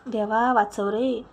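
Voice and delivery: loud, drawn-out fake wail; fake cry of pain. A narrator's reading. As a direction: pretend to be in labour pain. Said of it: "बळच ओरडली".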